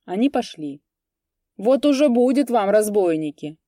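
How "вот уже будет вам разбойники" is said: loud, higher shout after them. A narrator's reading. Bityugov shouting threats after the robbers, loud. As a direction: yell a threat at their backs. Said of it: "крикнул им вслед Битюгов".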